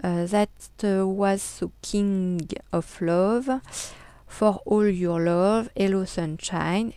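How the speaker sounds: slow, careful English read with a French accent. Shown as a demonstration. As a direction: spell out the English slowly in a proudly French accent. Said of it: "mon superbe accent anglais". (anglais lent avec un fort accent français)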